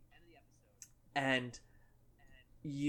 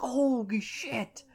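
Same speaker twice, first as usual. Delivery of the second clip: slow stunned awe; 9 semitones higher, much slower than usual. Retold or imitated. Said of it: "you're like".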